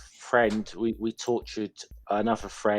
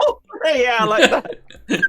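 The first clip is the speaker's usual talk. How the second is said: laughing through the words, pitched up; 11 semitones higher, 6 dB louder, slower than usual. Real, not acted. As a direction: giggle out the words. Laughing at joke.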